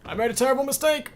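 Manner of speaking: high, loud, fast anguished cry; dramatic wail. Real, not acted. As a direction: cry it out in mock despair. Sudden dramatic outcry in game.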